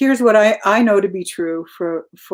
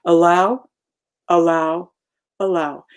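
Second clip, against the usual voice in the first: mantra; 3 semitones lower than usual. Shown as a demonstration. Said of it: "that's my little mantra".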